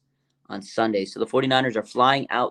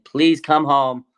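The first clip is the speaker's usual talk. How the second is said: mock pleading mom, higher, louder and slow; 4 semitones higher, 5 dB louder, much slower than usual. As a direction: drag it out like a mom begging her son home.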